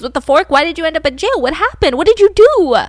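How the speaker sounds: retold incredulous outburst, building to the last question; confused disbelief. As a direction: act out a baffled friend demanding answers. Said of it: "And James is confused".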